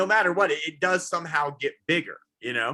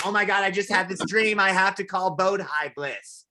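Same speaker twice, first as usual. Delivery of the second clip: put-on excited girlfriend; 5 semitones higher than usual. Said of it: "she'd be like".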